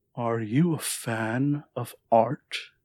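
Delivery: almost purring tone with the word "fan" drawn out. Narrating a scene, voicing a strange figure who greets you entering the room: soft, deep, purring voice. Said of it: "a soft, deep, almost purring voice that asks".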